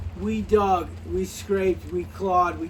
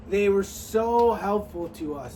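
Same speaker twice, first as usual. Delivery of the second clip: sarcastic. Real, not acted. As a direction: stretch out the praise sarcastically. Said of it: "that was sarcasm".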